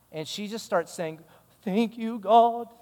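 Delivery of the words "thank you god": higher-pitched imitation of a Nigerian accent; imitated grateful woman with a Nigerian accent; attempted Nigerian accent. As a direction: try your best Nigerian accent, grateful. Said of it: "I can try my best on the accent".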